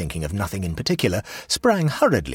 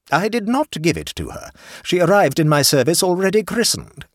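put-on higher and louder indignant old lady; aunt complaining to the hostess, indignant; stern aunt; 12 semitones higher, 6 dB louder than usual. A narrator's reading. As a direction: lay down the law like an affronted aunt. Aunt voiced.

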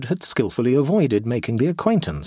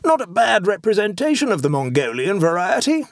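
exclaiming; 9 semitones higher than usual. A narrator's reading. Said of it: "he exclaimed".

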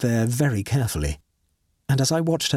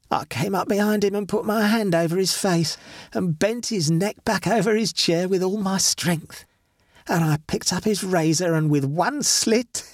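raised, crisp, relishing murderess; dead wife, gloating; 7 semitones higher than usual. Acted. The dead wife gloats over killing her husband, raised. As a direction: savour every step of the killing. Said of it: "swiftly and distinctly".

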